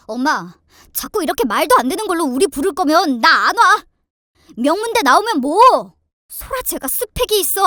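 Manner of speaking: loud, emphatic telling-off; angry husband. Acted. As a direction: lay down the law to mother and sister. Husband angrily rebukes sister and mother. (언성 높여 따지는 남편)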